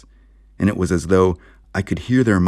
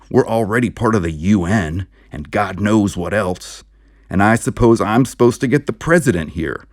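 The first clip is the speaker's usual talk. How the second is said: indignant; 5 semitones higher, 3 dB louder than usual. Acted. Sheriff getting red, indignant.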